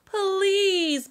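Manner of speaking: mild begging plea; begging bird. Acted. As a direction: beg like a lazy bird. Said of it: "begged the bird".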